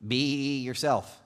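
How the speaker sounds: lightly voiced cartoon genie, drawn-out first word; hint of a genie impression; Genie from Aladdin. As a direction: slowly stretch it like a movie quote. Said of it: "as the genie taught us".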